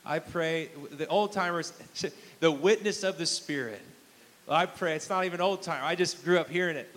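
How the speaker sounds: steady, earnest praying voice; closing prayer, sincere and firm; pastoral prayer. Acted. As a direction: pray over the congregation with confidence. Closing prayer over church.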